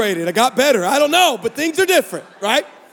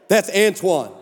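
lower, casual cover-up; trying to sound normal; 3 semitones lower, slower than usual. Retold or imitated. Husband covering up to his wife, forcedly casual. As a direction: play it down, as if nothing is odd. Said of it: "try to make something sound normal".

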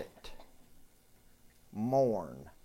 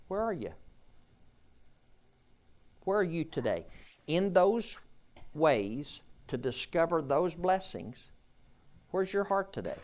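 fervent preaching; 5 semitones higher than usual. Acted. Preacher pressing the congregation.

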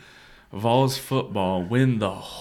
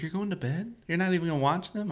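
high, incredulous imitation; retold disbelief; 8 semitones higher, faster than usual. Corey questioning an early bedtime during the game, mock incredulous.

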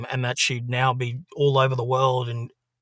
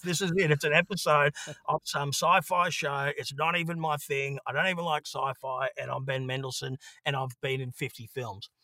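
higher, lightly voiced Ben in gloom; mock despair; 4 semitones higher than usual. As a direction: whine about rock bottom, half joking. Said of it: "just going".

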